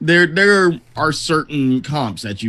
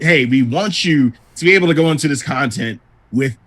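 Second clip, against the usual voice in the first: lilting mock PR pitch, key words raised; PR spokesperson; 4 semitones higher than usual. Mocking the developers' any-job statement, in a PR voice. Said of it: "it's kind of a P R statement".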